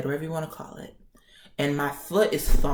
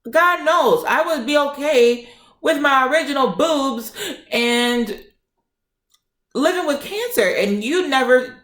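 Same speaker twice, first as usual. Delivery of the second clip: higher, heated telling-off; worked-up retold rant; 4 semitones higher than usual. Patient telling off the nurse who dismissed them, heated. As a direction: pour it out, worked up and insistent. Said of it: "I got loud".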